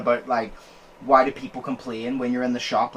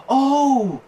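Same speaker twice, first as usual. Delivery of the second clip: sarcastic. Retold or imitated. Shop guy pretending to let him off, sarcastic. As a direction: imitate heavily sarcastic mock agreement. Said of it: "the sarcasm is so he's".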